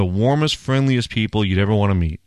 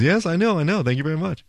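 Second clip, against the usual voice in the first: proud husband; 6 semitones higher, faster than usual. Retold or imitated.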